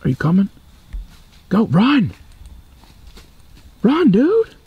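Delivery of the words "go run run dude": loud, high urgent shout. Real, not acted. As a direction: yell at him to run. Urging friend to run.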